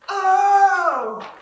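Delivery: loud, high, drawn-out "oh"; theatrical high wail; dramatic cry. Acted. Reacts dramatically to headmaster's name.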